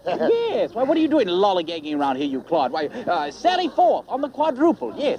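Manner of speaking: a put-on British accent, bluffing; fake British accent. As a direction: play the British toff, jolly and put-on. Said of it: "drop that dreadful accent now".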